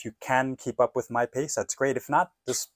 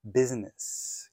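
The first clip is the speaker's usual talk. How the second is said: very slow, flowing "How's business?"; slow demo; 3 semitones higher, 3 dB louder, much slower than usual. Shown as a demonstration. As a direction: stretch it out for learners. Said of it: "How's" should flow very nicely".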